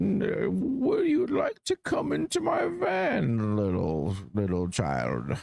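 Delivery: high, swooping creepy voice. Showing off his Bane cosplay voice to a friend: Bane voice, like creepy old man.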